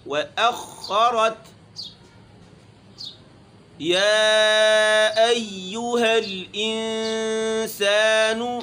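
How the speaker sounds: solemn recited call; Quranic recitation. Shown as a demonstration. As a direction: lift the verse into a long chant. Teacher recites Quran verse.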